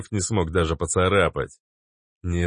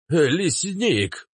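slow, exasperated outburst; lightly voiced grumpy old man; 10 semitones higher, much slower than usual. A narrator's reading. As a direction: blurt it in annoyance. (папаша Кац не выдержал)

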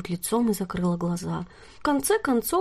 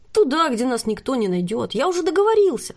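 loud, much higher triumphant exclamation; excited; 5 semitones higher, 5 dB louder than usual. Acted. Nort boasting he has arranged their escape, excited and loud. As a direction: burst out with pride.

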